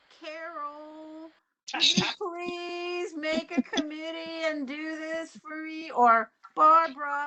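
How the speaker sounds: put-on, whiny, pleading voice with a drawn-out word. Explaining how committee volunteers get found, acting out the request: mock-whiny pleading. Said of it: "I get really whiny like that".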